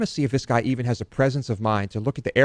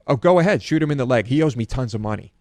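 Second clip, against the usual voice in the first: mock taunt; 2 semitones higher, 4 dB louder than usual. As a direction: dare him cheerfully to do it. Taunting the scammer on phone.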